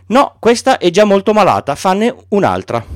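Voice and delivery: put-on a picky child turning the drawing down; lightly voiced boy, fussy; Little Prince.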